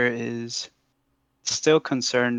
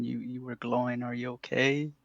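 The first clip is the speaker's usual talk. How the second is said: softly voiced aside, not fully whispered; mock whisper; 7 dB quieter than usual. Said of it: "I whisper to him".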